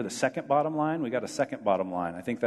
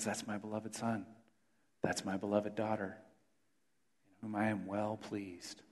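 gentle voice of God; 2 semitones lower, 9 dB quieter than usual. Acted. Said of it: "he looks at us and says".

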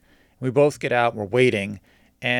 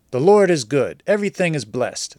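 mimicking pious seller; 2 semitones higher, 4 dB louder than usual. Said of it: "this is, like, how he talks to me".

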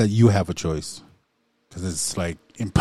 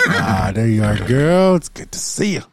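playful horse greeting; 2 semitones higher than usual. Pretend. Co-host pretends to greet a horse, playful cooing. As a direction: coo playfully, as to a pet horse.

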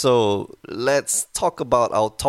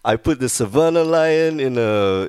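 Boston guy impression. Continues the Boston guys impression.

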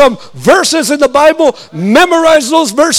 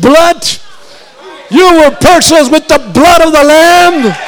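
full-force preaching. Acted. Preacher urging the congregation at full force. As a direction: preach it with fire.

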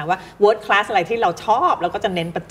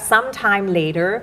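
"sometime later" with the voice held up at the comma; slow "sometime later", tone suspended on "later"; voice left hanging; 2 semitones higher, much slower than usual. Shown as a demonstration. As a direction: leave "later" floating, unfinished, before the next phrase. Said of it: "ลอย เสียงไว้ก่อน".

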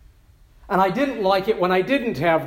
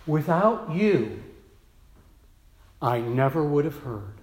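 grateful quote; 4 semitones lower than usual. Retold or imitated. Nancy thanking her pastor, slow and tender. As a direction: say it slowly with gratitude. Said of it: "she has said".

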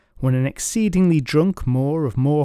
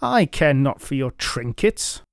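put-on boastful drunk knight. The speaker voiced at length.

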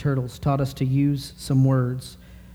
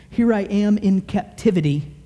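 fervent prayer; 4 semitones higher than usual. Acted. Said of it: "Daniel is praying".

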